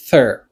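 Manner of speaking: "thir" alone, voiceless TH then an ER vowel; first-syllable demo. Shown as a demonstration. Teacher building the word, "thir" said clearly alone. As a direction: model "thir" as a separate syllable. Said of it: "lè sa mwen di".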